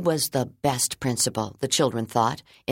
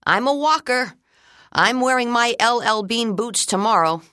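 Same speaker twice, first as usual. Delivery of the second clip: put-on eager child voice; 8 semitones higher, 4 dB louder than usual. Child answers principal eagerly.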